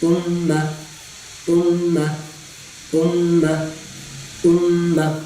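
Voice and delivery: امہ with a sharp glottal jolt; correct hamza. Shown as a demonstration. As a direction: snap the hamza at the start of امہ. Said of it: "حمزہ کو جھٹکا دینا".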